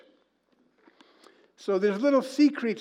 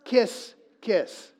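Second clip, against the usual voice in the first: higher, louder punchline; excited reveal; 6 semitones higher, 4 dB louder than usual. Real, not acted. Pastor revealing the license plate to the congregation, excited. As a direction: land the reveal with delight.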